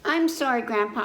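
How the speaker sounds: a lightly voiced child saying sorry; child apologizes to grandpa, lightly voiced; child's apology. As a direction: sound like a small kid. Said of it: "I said".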